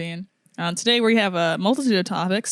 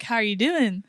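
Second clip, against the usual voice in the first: imitating sweet friend; 2 semitones higher than usual. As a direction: mimic the unsuspecting friend sweetly. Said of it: "So sweet. She's like".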